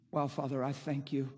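quietly conversational prayer demo; personal prayer. Shown as a demonstration. Preacher showing his private prayer to God, quietly conversational. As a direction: talk privately to the Father, understated. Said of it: "Here's what my personal prayer life looks like".

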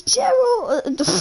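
high, shrill call of a mum; mum yelling. Retold or imitated. Imitating the mum calling her son, a high yell. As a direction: call the name out like an Italian mother. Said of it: "and his mum goes".

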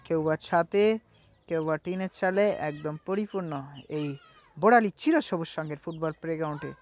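brisk live play-by-play commentary; bengali football commentary. Acted. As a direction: call the match as it happens.

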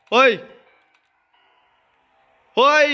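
startled yell. Real, not acted. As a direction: yelp as the trap snaps. Caught by a trap. (ร้องตกใจเสียงสูงดัง)

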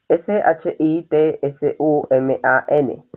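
each letter of J U N B I said apart, slowly; spelling out slowly. Shown as a demonstration. Teacher spelling yunbi out slowly for students.

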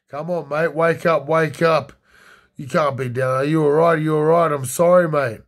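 urgent rousing. Acted. Acting Gomez slapping friend awake.

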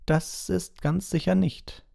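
high, slow, huffy little witch; indignant old witch. Acted. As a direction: protest in a high, slow affronted voice. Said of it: "sagte die Hutzelhexe entrüstet".

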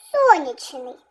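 сонячний with the first syllable СО stressed. Shown as a demonstration. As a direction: hit СО in "сонячний", then drop. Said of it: "наголос на О".

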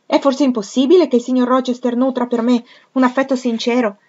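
high, loud and stung; a young woman's hurt, indignant cry; indignant outburst. A narrator's reading. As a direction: throw the question back, wounded and offended. Jane retorts, stung by Fairfax.

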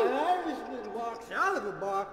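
put-on laughing drunk puppet voice; slurry, giggly tipsy joker; tipsy Mister Beer. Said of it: "he was a little inebriated".

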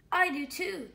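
put-on high, loud delighted girl; gleeful little girl; excited Lily. Lily voiced in story.

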